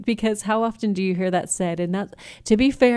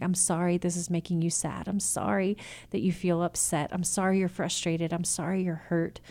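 put-on softer, tender apology to a hurting child; soothing sympathy; 6 dB quieter than usual. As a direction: comfort them quietly. Parent validating child's feelings.

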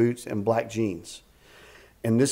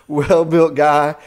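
a laugh, then "well-built guy" stretched out slowly and louder; 2 semitones higher, 8 dB louder, much slower than usual. Real, not acted. Marveling at the strong stranger, laughing. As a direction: chuckle through "well-built guy", slow and loud. Repeats phrase through a laugh.

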